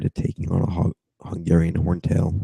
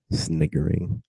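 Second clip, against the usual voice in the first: high mock sniggering; 10 semitones higher, 6 dB quieter, slower than usual. Shown as a demonstration.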